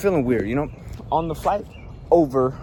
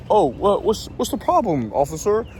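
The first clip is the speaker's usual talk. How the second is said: retold dad; 5 semitones higher than usual. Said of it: "So my dad said".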